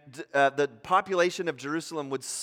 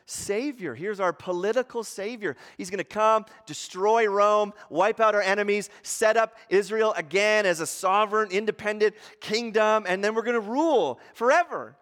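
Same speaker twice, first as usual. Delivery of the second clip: hopeful crowd; 4 semitones higher than usual. Retold or imitated. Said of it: "viewing Jesus as".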